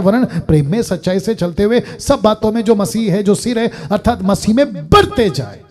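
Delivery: running scripture recital, rising in energy; preached scripture. Real, not acted. Preacher reciting the purpose to congregation, energetic preaching. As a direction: recite the verse onward with mounting emphasis.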